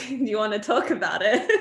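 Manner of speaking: words bubbling with a laugh; laughing through it. Retold or imitated. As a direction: tease mom while laughing. Daughter teasing mom on phone.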